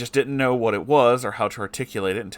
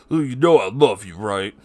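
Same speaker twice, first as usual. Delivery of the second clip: a hint of a mocking father, louder; father's trademark line; 7 dB louder than usual. Reader imitating abusive father after a beating, mock sweetness. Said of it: "his trademark".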